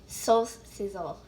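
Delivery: slow, drawn-out label read. Real, not acted. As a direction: read the name slowly. Reading label slowly.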